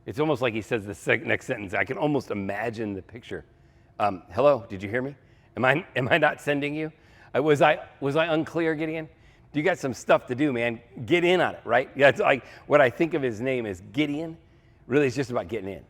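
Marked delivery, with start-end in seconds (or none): 4.3-11.6 mildly exasperated God, rising in pitch and force; exasperated prodding. Acted. God checking whether stunned Gideon heard him, mildly exasperated.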